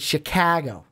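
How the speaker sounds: "Chicago" with an open "ka"; local pronunciation. Shown as a demonstration. Host confirming their own way, "Chicago" with "ka". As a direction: say "Chicago" as shi-KAH-go. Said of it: "where ours is Chicago".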